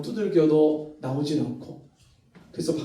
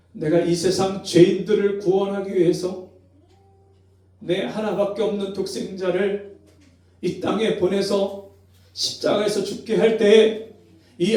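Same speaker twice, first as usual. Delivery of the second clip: rising, louder fatherly appeal; God's rebuke; 4 semitones higher, 4 dB louder than usual. Retold or imitated. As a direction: press the question with growing grief. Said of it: "주님이 말씀하시는 거예요". (점점 높아지는 아버지 하나님의 호소)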